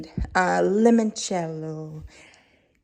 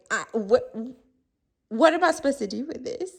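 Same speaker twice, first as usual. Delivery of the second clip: confused diner; 3 semitones higher, faster than usual. Retold or imitated. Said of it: "you're like".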